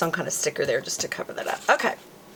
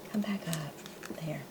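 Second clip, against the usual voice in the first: whisper; 14 dB quieter than usual. Real, not acted. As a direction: Come back up, breathed as a soft whisper. Repeats the coaxing to the sticker.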